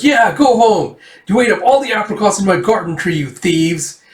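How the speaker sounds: high-pitched mock crowd complaint; angry heckling. Townsperson in mob scolds the riders, angry.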